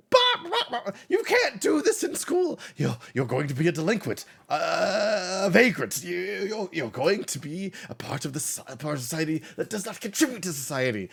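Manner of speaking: very high, loud scolding hall monitor; a high, screechy school hall monitor telling off Bob; shrill hall monitor. Acted. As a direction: squeal at the kid like a prissy hall monitor. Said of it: "he is just".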